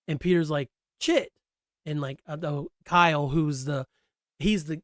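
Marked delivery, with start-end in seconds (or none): 1.0-1.3 exasperated boss. Retold or imitated. Boss reacts, scolding Chit.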